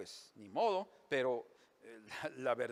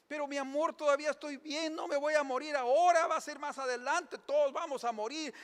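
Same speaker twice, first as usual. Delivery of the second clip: high, soothing mock wife; consoling wife; 9 semitones higher, 3 dB louder than usual. Wife comforts her weeping husband in the joke, high and soothing. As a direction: reassure the crying husband in a high voice. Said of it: "una mujer que está consolando".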